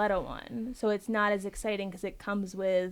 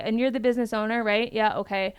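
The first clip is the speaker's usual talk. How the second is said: calling it out; 4 dB louder than usual. Retold or imitated. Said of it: "I'll call it out like that".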